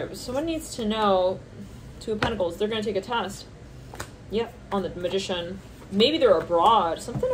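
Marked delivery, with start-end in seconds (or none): none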